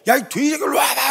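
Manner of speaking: high-pitched mock fury; worked-up challenge. David jumps up to face Goliath, high imitated fury. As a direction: act out an agitated, high challenge. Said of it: "막 이제 흥분해서 일어나기 시작했어요".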